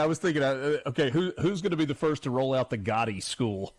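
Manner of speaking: real amusement, quick joking question; amused, laughing. Real, not acted. Host jokes about a mafia school, laughing. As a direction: quip while trying not to laugh. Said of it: "I'm laughing".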